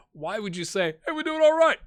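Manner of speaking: high mocking quote of his own answer; mocking his own words. Mocking his own press answer in a high voice. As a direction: parrots his reply back in a squeaky voice.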